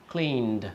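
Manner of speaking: "cleaned" as one syllable with a voiced final D; D ending. Shown as a demonstration. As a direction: demonstrate "cleaned" as "kleend". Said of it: "sounds like a D".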